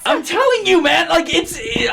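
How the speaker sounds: high, emphatic I'm telling you; excited insistence. Real, not acted. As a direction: really press the point home.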